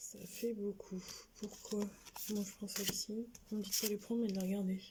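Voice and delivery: very soft, hushed muttering under the breath. Speaking to a group on camera, some wearing headsets; speaking very softly, mumbling. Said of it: "Je parle tout bas aujourd'hui, j'ai l'impression de marmonner".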